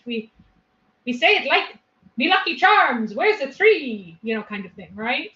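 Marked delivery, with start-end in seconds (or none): 2.2-4.2 higher, louder cartoon Irish lilt; hammed-up Irish, stretch out the last word; fake Irish accent. Putting on a fake Irish accent for listeners, cartoon Irish. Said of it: "a fake Irish accent".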